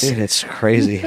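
talking while chewing gum. Real, not acted. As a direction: chew gum as you talk. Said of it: "I can keep hearing you chew your gum".

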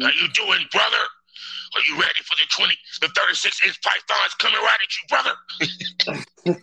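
hyped wrestler shout, pythons flexed; wrestling promo voice. Acted.

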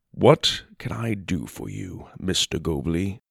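soft, kindly question; gentle with a frightened man; tender. Acted. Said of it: "looked tenderly down".

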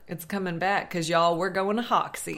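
put-on a playful touch of Arkansas accent. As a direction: slip into a mild Arkansas twang. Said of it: "it's a Arkansas accent".

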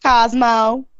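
"Cosmo" with a drawn-out Southern vowel; Southern accent. Shown as a demonstration. Cohost asked for Cosmo in a Southern accent, Southern accent. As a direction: answer the request with a Southern "Cosmo". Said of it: "Cosmo in a Southern accent?".

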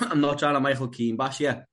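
coughing through the words; spluttering, throat catching; choking on a drink. Real, not acted. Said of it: "Sorry, I'm just choking here".

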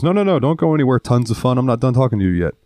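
domineering rude customer. Retold or imitated. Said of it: "he was being a dick".

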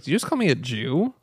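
a light put-on voice; imitating the deaf girl. Retelling the deaf girl's reply, lightly put-on voice. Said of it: "And she talks like that".

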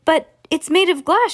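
high, loud protest; alarmed shout. A narrator's reading. Grandpa Joe warning Wonka about the lift, alarmed shout. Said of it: "shouted Grandpa Joe".

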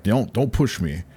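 slow, deadpan cop warning; lightly voiced deadpan cop. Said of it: "the different attitude of cop".

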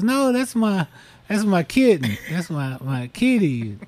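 high protest settling down; mock protest. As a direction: protective owner pleading, easing off. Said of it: "she goes".

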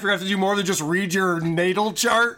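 incredulous, sarcastic rhetorical question. Real, not acted. Sarcastically mocking the clip's astrology advice.

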